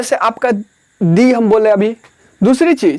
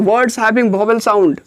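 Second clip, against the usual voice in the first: very slow, word by word; slow dictation pace; much slower than usual. Shown as a demonstration. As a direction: spell it out slowly for the class. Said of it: "vowel sound हो।".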